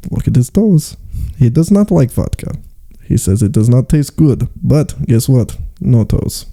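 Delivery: put-on comic Russian storyteller accent; mock Russian accent, matter-of-fact. Russian showing off a boy without toes, mock accent.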